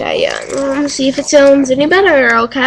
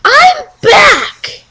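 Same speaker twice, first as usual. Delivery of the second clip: loud high vlog hello; excited greeting; 12 semitones higher, 4 dB louder, much slower than usual. Real, not acted. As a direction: shout hello to the viewers.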